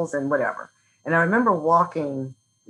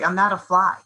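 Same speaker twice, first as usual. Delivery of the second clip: battle cry; 3 semitones higher, 4 dB louder than usual. Retold or imitated. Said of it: "a battle cry".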